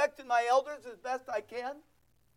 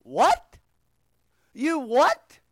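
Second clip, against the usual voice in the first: incredulous what; 7 dB louder, much slower than usual. Retold or imitated. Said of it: "you go".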